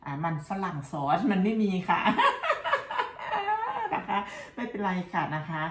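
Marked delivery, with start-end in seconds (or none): 2.1-3.9 loud high-pitched laughter. Real, not acted. Laughs at the story. (หัวเราะเสียงสูงดัง)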